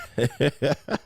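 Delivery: short chuckle; laughing. Real, not acted. Host reading the audience's laughter, amused chuckle. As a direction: chuckle at their reaction. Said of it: "Look, they laugh".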